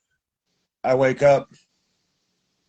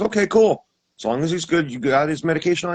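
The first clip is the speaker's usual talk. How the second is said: much higher, louder mom voice; light mock mother voice; imitating mom; 8 semitones higher, 5 dB louder than usual. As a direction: chirp it like his mother on the phone.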